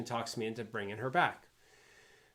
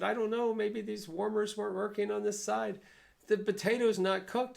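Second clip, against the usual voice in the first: flustered chef; 11 semitones higher, 4 dB louder than usual. Retold or imitated. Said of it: "He said".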